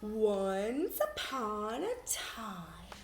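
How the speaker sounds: slow, drawn-out fairy tale start; once upon a time, read slow; storybook opening. Shown as a demonstration. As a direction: open the tale slowly.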